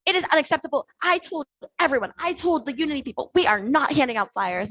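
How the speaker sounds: retold angry tirade. Man scolds her about campaign flyers, mock angry tirade. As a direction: mimic an indignant man laying down rules. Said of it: "he continued".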